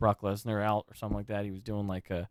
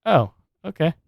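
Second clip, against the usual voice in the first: higher, louder mock letdown; underwhelmed reply; 8 semitones higher, 8 dB louder than usual. Cartoon wrestler hearing Shane's lame injury, higher and louder. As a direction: land it as a deflated shrug. Punchline voice in retelling.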